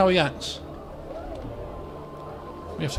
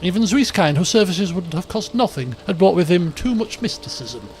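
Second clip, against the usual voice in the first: story narration. A narrator's reading. Narrator telling the party about the dancing Aelfwine, measured. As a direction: paint the scene for the listeners.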